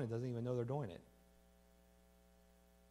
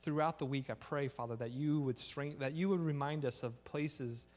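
leading prayer. Real, not acted. So let's pray.

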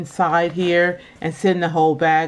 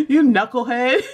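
imitating dad; 3 semitones higher than usual. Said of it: "My father always used to call us knuckleheads".

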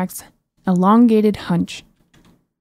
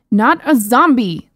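annoyed shout; 3 semitones higher, 4 dB louder, slower than usual. Acted. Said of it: "the princess screamed in annoyance".

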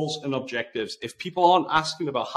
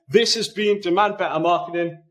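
show sign-off; 5 semitones higher than usual. Shown as a demonstration. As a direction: close it out like a radio host. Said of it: "I wish I had a signature sign off".

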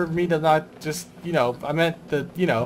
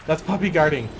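indignant; 5 semitones higher, 7 dB louder than usual. Real, not acted. Scolding the enemy guarding entrance.

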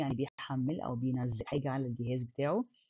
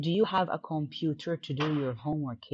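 slow reading; slower than usual. Shown as a demonstration. Teacher reading the textbook dialogue to students, slow and clear. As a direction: read "do you have a computer to do your homework" slowly and clearly. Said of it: "reads textbook dialogue aloud".

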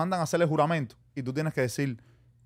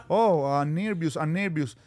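mock nervous English; slower than usual. Imitating himself, slowed.

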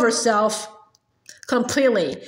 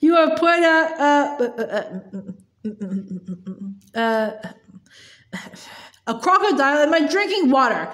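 mild yell. Acted. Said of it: "the Trunchbull yelled back".

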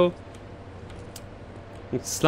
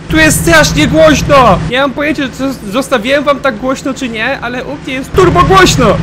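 high, loud yell to be heard; shouting over noise; 10 semitones higher, 8 dB louder than usual. Real, not acted. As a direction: shout over deafening game sound. Shouting over very loud game audio. (krzyk, żeby przekrzyczeć hałas)

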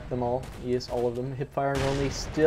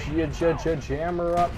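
playful stutter; much slower than usual. Pretend.

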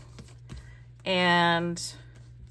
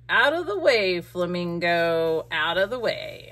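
pushy raccoon; 5 dB louder than usual. Pretend. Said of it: "this raccoon that's like".

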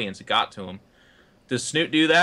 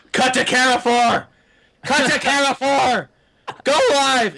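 high, loud, slow frantic shouting of orders; mock producer yell; 14 semitones higher, 7 dB louder, slower than usual. Producer shouting into the caster's earpiece, loud and frantic. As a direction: bark it like a panicked producer in his earpiece.

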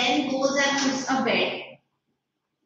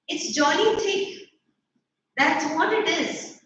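a higher, crisp, well-bred schoolboy; crisp gentlemanly voice; 3 semitones higher than usual. Acted. Harold scolding his pa in a crisp, gentlemanly way. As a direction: say it like a prim little gentleman. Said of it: "in the crisp, gentlemanly voice".

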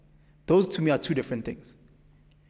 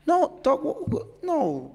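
incredulous no; 12 semitones higher, slower than usual. Real, not acted. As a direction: cut him off in sheer disbelief. Incredulous rejection of gym bullies.

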